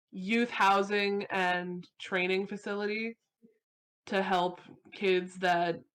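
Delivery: measured epilogue narration with pauses; story narration. Acted. Player telling friends their character's epilogue, story narration. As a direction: set the scene unhurriedly, phrase by phrase.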